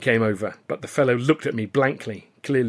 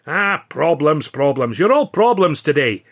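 exasperated, louder Scots grumble; mild huffy complaint; impatient complaint; 5 semitones higher, 9 dB louder than usual. A narrator's reading. Billy grumbling at the narrator, impatient. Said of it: "complained impatiently".

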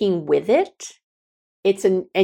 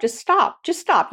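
firm stop; 9 semitones higher than usual. Shown as a demonstration. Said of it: "if they do start to interrupt".

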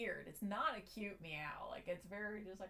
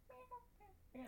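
cute imitated meow; 15 dB quieter than usual. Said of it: "he's very just like".

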